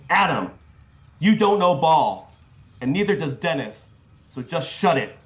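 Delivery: loud, emphatic all-caps read; shouting capitalized words. Shown as a demonstration. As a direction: belt out each capitalized word. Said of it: "do the inflection because this is written in all caps".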